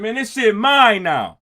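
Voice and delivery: slow half-yelled boast; mild mock yell. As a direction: drag it out like calling across the walkway. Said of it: "he's screaming out on the walkway".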